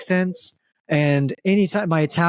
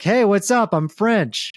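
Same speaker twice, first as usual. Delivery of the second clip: attempted French accent; 5 semitones higher, slower than usual. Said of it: "Everyone in the scene is French".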